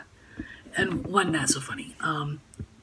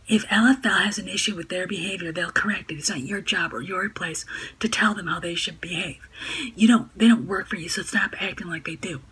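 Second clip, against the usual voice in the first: snide, sneering read; mock her in a sneering voice; snarky hag voice; 2 semitones higher, 5 dB louder than usual. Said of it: "Snarky feminazi, hag voice".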